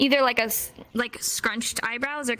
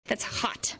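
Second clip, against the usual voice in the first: whisper; 6 dB quieter than usual. Shown as a demonstration. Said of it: "sign demo whispered".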